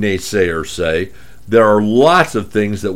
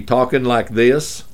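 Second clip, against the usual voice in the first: Dallas accent. Shown as a demonstration. Radio host showing how he sounded after calls, light Dallas accent. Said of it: "headquartered in Dallas".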